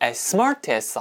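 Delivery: "smart" hit hard, "as" glided over quickly. English lesson practicing the phrase as smart as: stress on smart. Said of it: "as, as는 굉장히 쓱 지나가고요. 중간에 있는 이 smart의 강세를 많이 주시면 됩니다".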